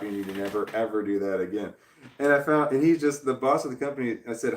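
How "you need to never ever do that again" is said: low, controlled and softer; firm but measured, keeping it professional; calm professional tone. Retold or imitated. Telling the caller calmly, in a low, controlled voice. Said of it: "I said it in a professional way".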